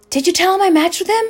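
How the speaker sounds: high, loud yell as the niece; imitating an indignant shout; retold yell. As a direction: yell it out high, retelling her. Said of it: "and she yells".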